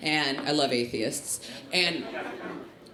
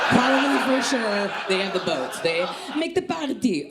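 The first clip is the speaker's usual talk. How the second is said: put-on Sephardi accent, slightly raised; 4 semitones higher than usual. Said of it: "okay, that was the accent".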